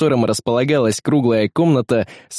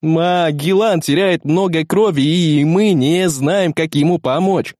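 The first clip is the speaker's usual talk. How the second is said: slow, higher character voice; urgent technician; 5 semitones higher, slower than usual. Acted. Technician reporting Magellan's blood loss, high slow urgency. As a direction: report the emergency high and drawn out.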